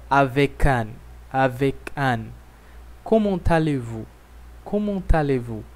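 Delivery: "avec un" linked as "avek-un"; "Comment allez-vous" with a T link; French liaison. Shown as a demonstration. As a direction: link the words smoothly. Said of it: "como vocês podem ver".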